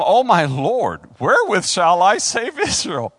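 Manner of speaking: loud, dramatic scripture cry; hammed-up plea; Gideon's alarm. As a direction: exclaim it like a panicked unlikely hero. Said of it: "they said unto him".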